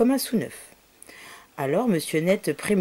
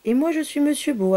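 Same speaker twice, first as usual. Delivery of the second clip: higher, whispered character voice; 8 semitones higher, 3 dB louder than usual. Acted. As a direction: chime in high and whispered. Monsieur Beau introduces himself.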